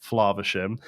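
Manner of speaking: Flaversham with a long "ah" in the first syllable; Scottish long A. Shown as a demonstration. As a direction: say Flaversham as a Scot would, "Flahversham". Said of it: "Hiram in the movie is Scottish".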